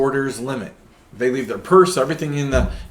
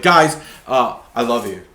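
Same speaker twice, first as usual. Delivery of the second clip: Robbie impression; 7 dB louder than usual. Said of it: "my best, uh, Robbie impression".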